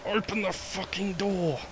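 high panicked yell at door; frantic high-pitched pleading; being chased. Real, not acted. Fleeing monster, door stuck.

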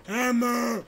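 loud, high, stretched call; playful shout. Pretend. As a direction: belt it out like a battle cry. Calling out the game's hammer action.

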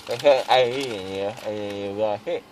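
numb mouth, slurring; mouth full of gauze. Real, not acted. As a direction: talk through swollen cheeks. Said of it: "Still a little loopy".

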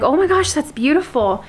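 high-pitched gushing exclamation; giddy delight. Retold or imitated. Recalling opening the dragonfly gift, giddy delight. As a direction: gush like a little girl, starting high. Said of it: "all giddy and excited inside".

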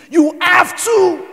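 high, slow, drawn-out shout; preacher's slow emphatic shout; slow shouted insistence. Real, not acted. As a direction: hammer it home slowly. Preacher exhorting congregation.

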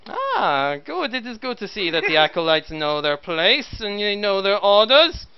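cold commissar giving orders. Acted. GM voices the commissar.

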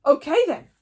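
scared but overexcited shout; hearty booming chief voice, half panicking; loud chief. Acted. Chief Stoic addressing four hundred Vikings, loud and overexcited.

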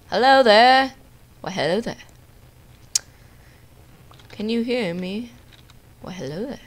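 hammed-up accented greeting; put-on greeting voice. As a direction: greet them in a playful put-on voice. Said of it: "I can do that voice pretty well".

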